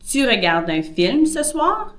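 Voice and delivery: soir lifted high at the end of "Tu regardes un film ce soir?"; rising question tune. Shown as a demonstration. Teacher models a rising question for students. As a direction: make "soir" climb so it sounds like a question. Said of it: "See how the soir was higher pitched".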